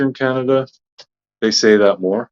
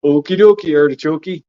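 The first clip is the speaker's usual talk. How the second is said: playful singsong; 4 semitones higher than usual. Pretend. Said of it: "I do say okie dokie".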